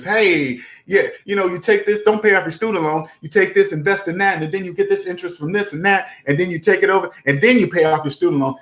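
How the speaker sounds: lightly mocked investor spiel; fast-talking guru pitch. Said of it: "they confuse people in a debt matrix".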